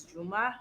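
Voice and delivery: "Juma" the Arabic way; Arabic pronunciation. Shown as a demonstration. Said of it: "is actually pronounced, like, in Arabic".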